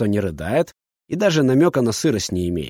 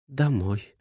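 whispered; 5 dB quieter than usual. A narrator's reading. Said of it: "шепчет".

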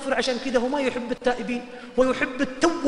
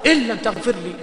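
earnest colloquial prayer; 4 dB louder than usual. Shown as a demonstration. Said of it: "قلها بالعامي".

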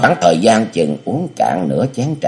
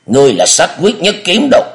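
put-on much higher, louder cunning old master; scheming elder; 12 semitones higher, 4 dB louder than usual. Địa Linh feeds the amnesiac hero a false name, high and sly. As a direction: coax the name into him, high and insistent.

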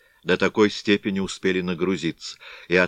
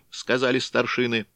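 ordinary delivery, nothing marked

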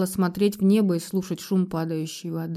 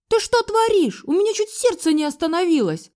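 shrill startled shout, much higher; 9 semitones higher than usual. A narrator's reading. Mother-in-law shouts at daughter-in-law over the broken cup. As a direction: scream at her in shock. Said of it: "закричала на меня".

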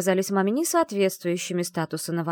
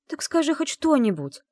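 demanding; 9 semitones higher, 3 dB louder than usual. A narrator's reading. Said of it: "потребовала я".

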